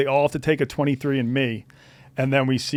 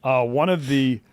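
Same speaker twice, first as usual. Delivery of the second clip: host intro; slower than usual. Acted.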